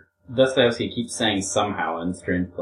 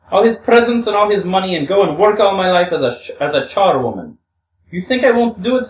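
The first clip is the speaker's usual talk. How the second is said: high, loud, hammed-up tirade; acted frenzy of threats in a raised woman's voice; hysterical shouting; 8 semitones higher, 5 dB louder than usual. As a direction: rant defiantly, pitch leaping up and easing at the end. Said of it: "She shouted these last words hysterically".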